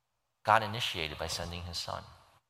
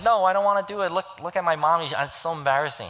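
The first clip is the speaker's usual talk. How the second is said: high, loud mock-whine of refusal; retold child's embarrassed protest; protesting little girl; 9 semitones higher, 6 dB louder, faster than usual. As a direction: imitate a mortified kid refusing, pitched way up. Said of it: "she's like".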